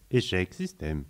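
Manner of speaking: flat machine voice; robotic error message. Acted. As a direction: read it like a crashing computer. System failure message. (message d'erreur robotique)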